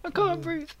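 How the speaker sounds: high, slow words through laughter; laughing hard. Real, not acted. Delighting in the friend's annoyance, laughing hard. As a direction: barely get words out for laughing.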